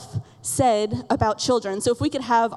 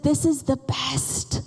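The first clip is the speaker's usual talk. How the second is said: lightly voiced little boy; much slower than usual. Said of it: "He said".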